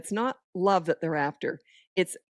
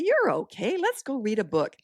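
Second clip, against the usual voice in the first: cheery; 5 semitones higher than usual. Shown as a demonstration. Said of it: "See how I'm all cheery?".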